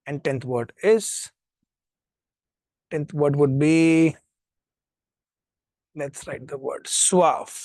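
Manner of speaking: slow it right down for students writing; very slow dictation. Shown as a demonstration. Teacher dictating the tenth word to the class, very slow. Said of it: "dictating vocabulary to class".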